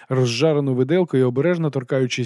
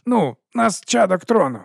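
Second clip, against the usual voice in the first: patiently repeating; 8 semitones higher than usual. Acted. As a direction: spell out "нас чадок трону" as to a slow child. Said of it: "терпляче пояснив відривач".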